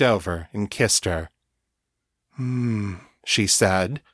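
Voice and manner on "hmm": pleasured growling hum. Acted. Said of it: "almost a growl of pleasure".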